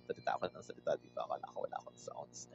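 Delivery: dropping to a near whisper, fast; sheepish murmur to herself after the scare; trailing off into a hushed mutter; relieved aside. Real, not acted. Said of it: "kinabahan naman ako doon".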